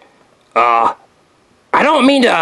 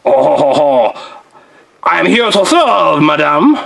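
lightly voiced courtly candlestick; a hint of a smooth, flattering servant; Luminaire; slower than usual. Luminaire flattering Belle and Elsa, gently courtly voice. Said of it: "Thank you, Luminaire".

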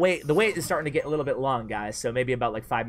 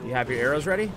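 motherly; faster than usual. Real, not acted. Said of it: "I sounded so motherly there".

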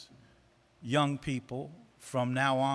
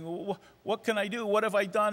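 higher, hurried mock distress; mock crying; 5 semitones higher, faster than usual. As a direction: imitate a tearful dumpee, lightly. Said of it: "they're crying and they're sobbing".

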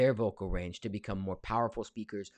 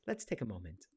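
softer take of the line; quiet; 7 dB quieter than usual. Pretend. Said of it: "That probably wasn't the right take a moment noise".

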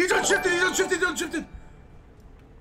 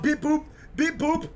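mock robot beeps. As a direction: beep like a dumb bot. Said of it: "Mio's a fucking bot".

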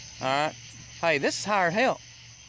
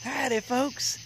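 a second, softer "Howdy, folks" in the same voice; Catfish Cooley voice; 7 semitones higher, 4 dB quieter, slower than usual. Shown as a demonstration. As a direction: repeat the showman greeting more quietly. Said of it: "I sound like Catfish Cooley when I did that".

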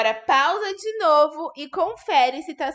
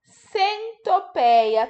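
Centopeia said as one word, slowly and a bit higher; slow but whole word; 7 semitones higher, 4 dB louder, much slower than usual. Shown as a demonstration. Teacher repeating the word for children, slowly and whole. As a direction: say the word through at a calm, slow pace. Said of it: "Tá faltando um pedacinho".

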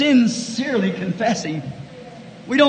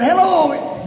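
higher-pitched called-out greeting; mock holler; 6 semitones higher than usual. Partygoer calling up to Joseph or John, mock holler.

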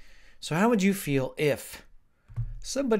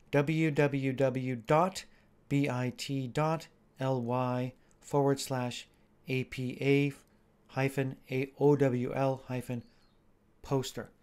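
dictating; slower than usual. Shown as a demonstration. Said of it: "spelling out a link".

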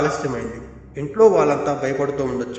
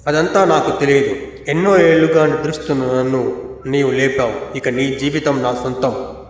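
hideous ghost. Acted. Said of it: "గట్టిగా వికృతంగా నవ్వుతుంది".

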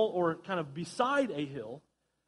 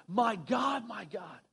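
imitated cry; slower than usual. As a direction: cry it out briefly, then let it fall. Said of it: "He cries it out".

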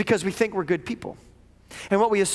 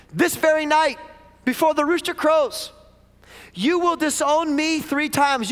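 raised, slowed, weighty prophecy; solemn Jesus warning; 8 semitones higher, slower than usual. Retold or imitated. Jesus warning overconfident Peter, slow raised solemn voice. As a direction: pronounce the warning slowly with weight. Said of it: "Jesus said".

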